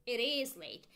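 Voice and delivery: "is" stressed for emphasis; emphatic IS. Shown as a demonstration. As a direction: lean on the word "is". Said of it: "we make the emphasis with our intonation".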